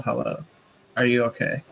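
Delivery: a mild yell across the clearing; friendly call out. Acted. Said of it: "I'm gonna yell".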